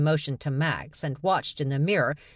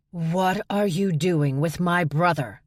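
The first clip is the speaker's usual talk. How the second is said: slow, pointed demand; the woman storming in to demand an answer about her brother; 3 semitones higher, slower than usual. Acted. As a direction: confront them, word by word. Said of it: "the woman demanded".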